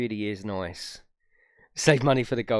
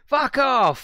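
"Fuck off!" yelled much higher and louder, hitting "Fuck" hard; screamed fuck off; 13 semitones higher, 8 dB louder than usual. Shown as a demonstration. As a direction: bellow "Fuck off!" like the car itself is screaming it. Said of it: "That's what it screams to me".

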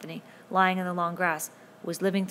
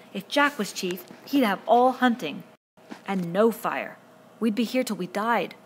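voice rising to a squeak; 3 semitones higher, 6 dB louder than usual. Acted. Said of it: "His voice ran up to a squeak".

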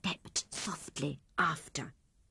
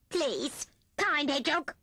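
higher, pleading whine on kind; whining; 8 semitones higher than usual. Acted. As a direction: beg like a hungry rat. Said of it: "whined Rat".

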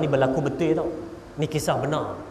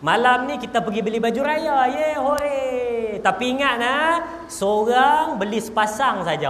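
father's announcement; 6 semitones higher than usual. Acted. Father telling the family about Raya shopping, in a grand voice. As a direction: announce it like a proud dad. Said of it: "ayah buat pengumuman".

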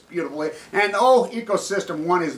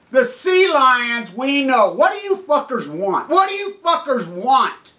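loud, high, exasperated outcry; angry, raised-voice pleading; outraged demand; 5 semitones higher, 3 dB louder, slower than usual. Real, not acted. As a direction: demand an answer in real outrage. Outraged demand over dying sea lions.

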